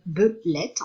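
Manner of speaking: belette said slowly and deliberately, syllables apart. Shown as a demonstration. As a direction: spell out belette by ear for children. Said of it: "donc, belette".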